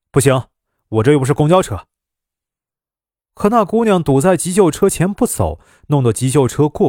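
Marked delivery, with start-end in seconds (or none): 0.1-1.9 fast, curt brush-off; grumpy refusal. Acted. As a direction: turn her down impatiently, quickly. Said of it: "司机没好气地说". (没好气地快速拒绝)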